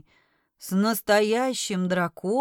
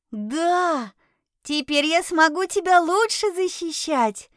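squeaky voice; 5 semitones higher than usual. Acted. Same familiar's squeaky voice.

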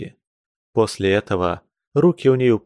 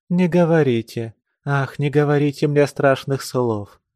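almost moaning; 4 semitones higher than usual. Acted. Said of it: "почти простонала она".

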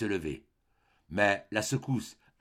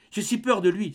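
higher, stress on peur; fearful confession; 8 semitones higher, 3 dB louder than usual. A narrator's reading. Mother confessing her fear to her son, trembling. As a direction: admit the fear, shaken.

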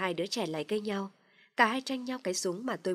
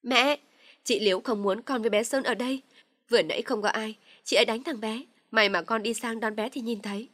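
loud complaint; 3 semitones higher, 4 dB louder than usual. Acted. Dung loudly tells her mother the sister-in-law hit her son.

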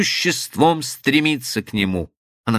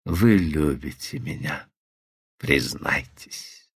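low pressing whisper; 10 semitones lower, 6 dB quieter, slower than usual. A narrator's reading. Man pressing a confession.

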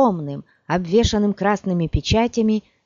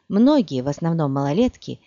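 ordinary delivery

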